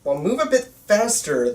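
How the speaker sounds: ordinary talk, nothing marked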